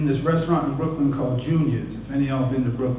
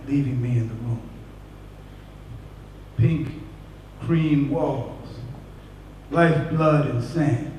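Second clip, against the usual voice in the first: quiet poetry reading; 3 dB quieter than usual. Acted. Quiet poem ending.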